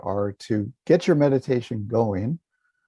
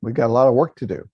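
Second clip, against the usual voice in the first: lightly mocked get-down-to-business voice; eager meditator. Teacher imitating people sitting down to meditate, mildly brisk and businesslike. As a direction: imitate someone rushing into meditation. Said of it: "people will sit down and they'll go".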